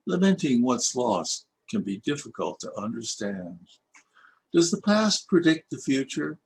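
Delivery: reflective verse reading with questions lifted; poem reading. Acted. Poet reading his reunion poem to old classmates, reflective recitation. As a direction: read the verses as gentle musings on the past.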